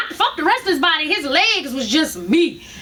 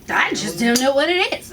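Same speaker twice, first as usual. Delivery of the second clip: mimicking doctor; 4 semitones lower than usual. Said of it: "that's how he's talking".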